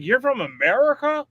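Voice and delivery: high, bright mock surprise; mock surprised question. Mimicking Australians asking him.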